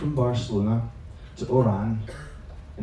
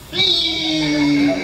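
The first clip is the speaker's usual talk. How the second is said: Fish called much higher and louder; insistent shout; 7 dB louder than usual. Retold or imitated. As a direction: repeat it louder each time. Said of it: "she just kept saying it".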